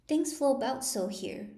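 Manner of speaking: Alice complaining to the sheep, plaintive. A narrator's reading. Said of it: "in a plaintive tone".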